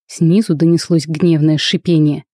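plain reading voice

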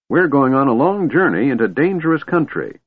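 put-on high-pitched old man's warning; insistent old man. A narrator's reading. Old man tells dragon of dangerous journey, insistent. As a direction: warn emphatically in a high voice.

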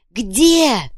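high, loud, desperate question; panicked cry. Acted. Krokhin tearing the chest apart, high panicked cry.

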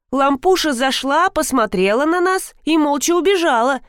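put-on high little-girl telltale voice; tattling child. A narrator's reading. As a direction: tell on her like a small child. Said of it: "наябедничала киса". (ябедничающий детский голосок)

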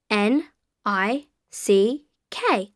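letter by letter; spelling it out. Shown as a demonstration. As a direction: spell each letter clearly. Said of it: "can you spell that for me?".

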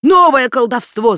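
crowd shouting. A narrator's reading. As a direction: cry out in superstitious panic. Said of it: "закричали они".

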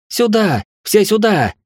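high desperate call across the yard; shouting for help. A narrator's reading. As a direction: yell for everyone to come. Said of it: "кричит Хильда". (отчаянный крик о помощи)

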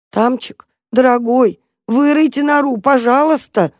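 cat whining at the mouse to dig; whining plea. Acted. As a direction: whine like a hungry kitten. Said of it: "заскулила крышка".

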